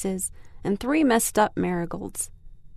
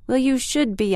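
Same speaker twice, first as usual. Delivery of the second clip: sharp, pitched-up reproach; glaring retort; 4 semitones higher than usual. Acted. Big sister glaring at her brother, sharp retort. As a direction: snap back at the little brother. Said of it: "I said, glaring at him".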